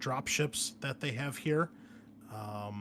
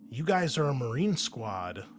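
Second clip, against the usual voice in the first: game master scene setting. Acted. Game master briefing the marine squad on their mission, measured narration. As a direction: lay out the mission briefing deliberately.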